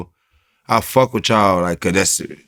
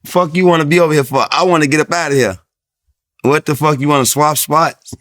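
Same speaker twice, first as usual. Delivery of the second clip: mock annoyed yell; 7 semitones higher, 5 dB louder than usual. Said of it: "we like".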